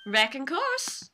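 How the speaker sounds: "Wrecking course" drawn out, rising; Southern drawl. Acted. Witness answering the prosecutor, "Wrecking course" slow and rising. Lotta's slangy answer baffles the court.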